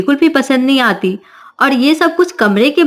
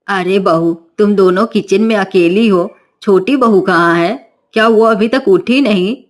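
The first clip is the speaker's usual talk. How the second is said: stern mother-in-law; 3 semitones lower than usual. Acted. Mother-in-law asks about bride.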